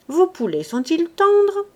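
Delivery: high, loud, hearty demand for lunch; a pushy squire making himself at home; boisterous lord. Acted. Lord ordering the gardener to serve lunch, loud and hearty.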